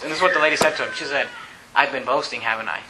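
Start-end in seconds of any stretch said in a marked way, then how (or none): 1.8-2.8 quiet admission. Retold or imitated. Lady realises, quietly admitting.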